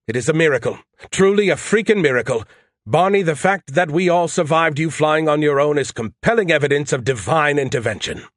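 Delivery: high, loud mocking AI voice; sarcastic Skippy. Skippy mocking the pilot's first solo, sarcastic high voice. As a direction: ham up the sneering disbelief. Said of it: "Skippy answered".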